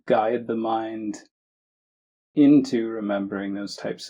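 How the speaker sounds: measured meditation guidance with long pauses; unhurried phrases, each given room to settle; guided meditation. Acted. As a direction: guide listeners gently, leaving space between phrases.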